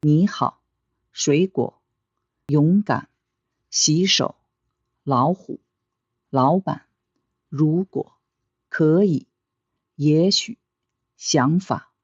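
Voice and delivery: 你好, 水果: first syllable rises, second short and low; rising, then low. Shown as a demonstration. Teacher says read after me, 可以 rising then low. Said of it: "the first third tone rises".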